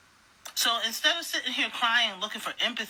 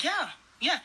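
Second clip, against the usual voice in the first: higher-pitched mocking yes-man; mock eager voter; 8 semitones higher than usual. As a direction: imitate a gullible voter cheering along. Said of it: "and you said".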